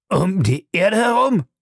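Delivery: high-pitched, incredulous question; astonished cry. Acted. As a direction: exclaim in disbelief. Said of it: "rief Fix".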